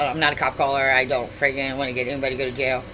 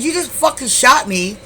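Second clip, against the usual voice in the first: high, loud, disbelieving protest; shocked accusation; 8 semitones higher, 5 dB louder than usual. Retold or imitated. Woman to boyfriend after seeing blood, shocked accusation. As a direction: act out outraged disbelief at the shooter.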